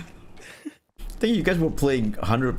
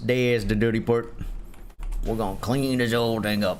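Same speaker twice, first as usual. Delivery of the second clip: Cockney British voice; 2 semitones lower than usual. Pretend. Player scrubbing the dirty part, in mock Cockney. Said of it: "weird Cockney British voice".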